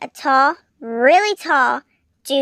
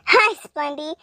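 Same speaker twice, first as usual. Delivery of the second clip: through gritted teeth; 2 semitones higher than usual. Acted. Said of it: "I said through gritted teeth".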